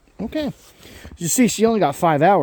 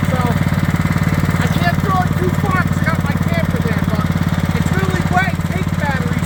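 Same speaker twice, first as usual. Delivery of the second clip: raised voice over engine; 10 semitones higher than usual. Real, not acted. Talking over a running snowblower.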